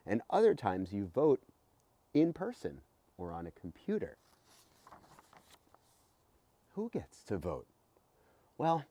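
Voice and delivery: put-on lively, bright read-aloud for kids; reading to children. Host reading a voting book to kids, lively read-aloud. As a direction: read it like a storybook to young listeners.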